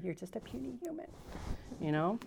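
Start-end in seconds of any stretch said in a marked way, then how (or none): 0.0-1.1 high, quick mocking Hulk line. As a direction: toss it off as the Hulk. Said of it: "that's what we all need to hear".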